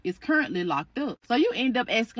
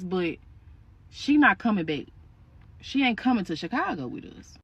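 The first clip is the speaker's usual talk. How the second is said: lower, measured refusal; lightly voiced firm husband; 5 semitones lower than usual. Husband refusing to take niece to Chicago, firm low voice. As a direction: drop the voice a little and lay down the law.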